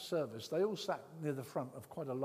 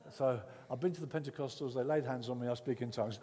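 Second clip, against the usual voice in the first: blunt boasting; 5 dB louder than usual. Pretend. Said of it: "I didn't say it like that".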